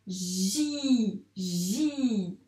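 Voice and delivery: J read as "ji", long "zh" into held "ee"; blended syllable. Shown as a demonstration. Teacher blending J and I for a learner, "ji" stretched. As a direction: draw the syllable "ji" out slowly. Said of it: "ça fait".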